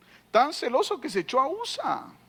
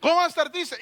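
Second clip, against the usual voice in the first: fervent preaching; 5 semitones higher than usual. Real, not acted. Preacher scolding the sad servant before the king, fervent. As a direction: press the point with rising fire.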